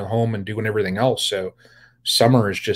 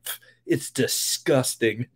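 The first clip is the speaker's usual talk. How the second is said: imitating the boy while cracking up; quoting him between giggles; laughing through a quote; 6 dB quieter than usual. Retelling the boy's Vegemite verdict, laughing.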